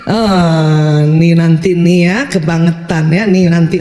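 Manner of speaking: low, slow mock grumble; acted suspicious muttered reaction; put-upon parent. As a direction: grumble inwardly, dragging it out low. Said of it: "nggak usah merasa juga".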